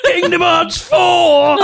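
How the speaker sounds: very high, slow ecstatic shout; excited Rosie. Retold or imitated. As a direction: scream the game title in delight. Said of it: "impression of Rosie being excited".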